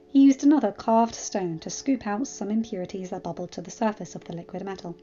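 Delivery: measured audiobook-style narration; story narration. A narrator's reading. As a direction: read the tale aloud evenly. Narrates the fan fiction.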